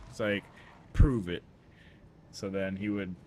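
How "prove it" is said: challenge. Retold or imitated. Mike challenging Victor.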